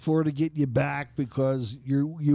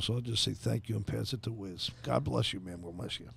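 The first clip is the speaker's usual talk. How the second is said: holding back emotion; 7 dB quieter than usual. Real, not acted. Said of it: "I'm gonna get emotional".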